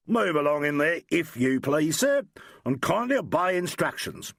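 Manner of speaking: mock-stiff police command. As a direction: play the strict officer, mildly. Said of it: "Very stiff".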